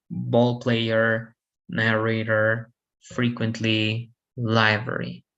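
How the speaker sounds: "ball player, narrator, frequently, library" each stressed on the first syllable; weight the opening syllable of "ball player, narrator, frequently, library". Shown as a demonstration. Teacher giving examples, "ball player, narrator, frequently, library" stressed up front. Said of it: "Stress in the first syllable".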